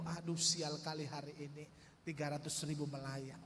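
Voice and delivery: grumbling. Retold or imitated. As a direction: grouse under his breath about the lost money. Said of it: "hatiku mulai menggerutu". (menggerutu sendiri dengan suara lebih rendah dan pelan)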